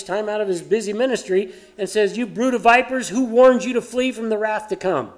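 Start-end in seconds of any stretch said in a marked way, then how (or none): 2.2-5.1 louder, higher prophet yell; John yelling. Retold or imitated. John yelling at the religious leaders, loud rebuke. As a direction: shout it across the river at them. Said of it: "And John yells out".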